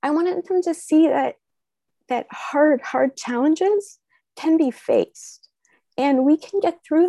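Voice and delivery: emotional, holding back tears; getting teary. Real, not acted. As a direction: voice near tears, pushing through. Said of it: "I'm gonna get teary".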